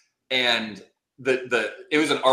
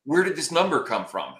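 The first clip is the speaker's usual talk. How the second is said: higher-pitched panicked question; mild mock terror; 5 semitones higher than usual. His lawyer to him across the table at trial, mock terror. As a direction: imitate a lawyer caught off guard. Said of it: "like, terror in his eyes".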